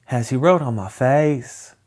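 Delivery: indignant British schoolgirl, imitated; regional British accent. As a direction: mimic a little girl's regional British accent. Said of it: "that accent is actually really fun".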